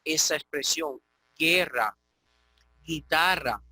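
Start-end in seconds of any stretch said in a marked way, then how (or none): 1.3-3.6 GUERRA and GUITARRA with a hard g, no w; silent u. Shown as a demonstration. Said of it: "te permite hacer esa expresión".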